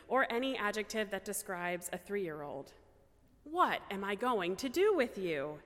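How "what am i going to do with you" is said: mock-exasperated question with playful swings in pitch; silly, sarcastic exasperation. Aunt or uncle to a squirmy three-year-old nephew, playfully exasperated. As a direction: tease with a touch of exasperation. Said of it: "silly, funny, sarcastic, though still exasperated".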